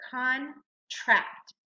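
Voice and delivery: "Contract" split as con, pause, tract; syllable by syllable. Shown as a demonstration. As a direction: read "Contract" in two separate beats. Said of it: "we read it out syllable by syllable".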